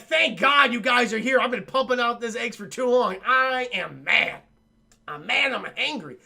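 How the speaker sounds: hammed-up queen's complaint; exasperated alien queen. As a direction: play a fed-up monster queen.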